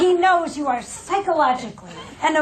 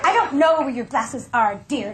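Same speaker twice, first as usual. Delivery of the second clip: judgmental tone; 4 semitones lower than usual. Retold or imitated. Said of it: "Notice the tone".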